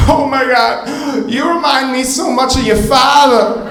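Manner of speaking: high, sing-song mother's voice; mock mom voice. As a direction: answer the little one like a chirpy mom. Mother answering the child.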